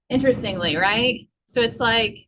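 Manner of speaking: breathless after running up the stairs; puffing between words; out of breath. Real, not acted. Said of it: "I'm sorry, I'm out of breath".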